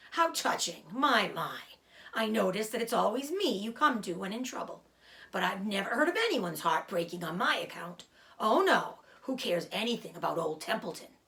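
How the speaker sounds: dry, mocking old rat; sarcastic rat voice. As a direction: sneer at the pig's drama. Rat mocks Wilbur.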